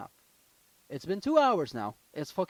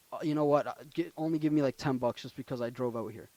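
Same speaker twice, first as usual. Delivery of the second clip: retold calm tone; 4 semitones lower than usual. Tow driver at the end asking only ten bucks, calm tone. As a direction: imitate a driver who has backed down, easygoing. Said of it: "to calm tone".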